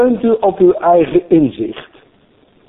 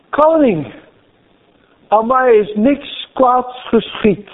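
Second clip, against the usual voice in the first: calm Daniel; 6 semitones higher, slower than usual. Retold or imitated. Daniel answers the king.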